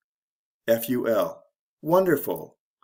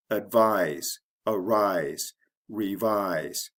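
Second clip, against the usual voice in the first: teacher's word list, ad-VISE, a-RISE, re-VISE, each falling; second-syllable stress; 2 semitones lower, much slower than usual. Shown as a demonstration. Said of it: "the second syllable is emphasized or stressed".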